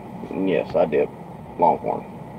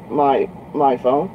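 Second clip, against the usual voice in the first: higher, drawn-out questioning; lightly voiced girl; 5 semitones higher, slower than usual. Trucker retelling the girl's reply to his demand, lightly mimicked. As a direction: lightly imitate a puzzled girl, slower.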